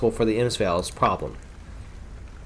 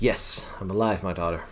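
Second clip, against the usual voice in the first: put-on old wizard; 6 semitones lower, 8 dB quieter than usual. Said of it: "German says".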